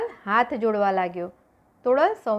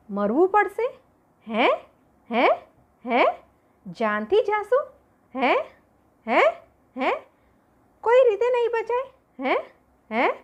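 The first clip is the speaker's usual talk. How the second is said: high, panicked, breathless questions; terrified pleading; 9 semitones higher than usual. Acted. Jesal panics at sea, terrified and pleading. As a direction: gasp each hey in rising terror.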